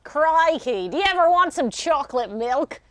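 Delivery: hammed-up Australian ad voice; Australian accent. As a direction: sell chocolate milk in a bad Aussie accent. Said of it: "performed in the best Australian accent".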